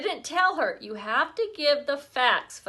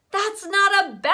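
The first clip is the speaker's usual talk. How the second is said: loud, higher yell; 9 semitones higher, 7 dB louder than usual. A narrator's reading. Boy chasing Libby, yelling a warning. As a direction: call out while running after her. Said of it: "I yelled".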